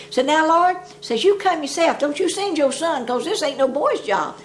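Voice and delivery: hammed-up indignant prayer; mock pleading prayer. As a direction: demand it of heaven, hammed-up. Mike's prayer demanding the Lord.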